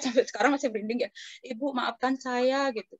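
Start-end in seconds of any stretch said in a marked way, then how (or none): 1.5-2.7 slow retold plea; drawn-out, mildly pleading apology; apologetic spirit. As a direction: lightly voice a spirit asking forgiveness. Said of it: "rohnya dia ngomong-ngomong sama saya".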